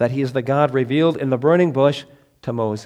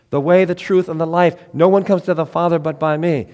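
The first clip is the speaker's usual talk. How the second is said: building proclamation; 4 semitones higher, 4 dB louder than usual. Acted. Rising proclamation of I am sayings.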